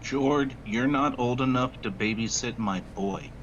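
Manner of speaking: ordinary talk, nothing marked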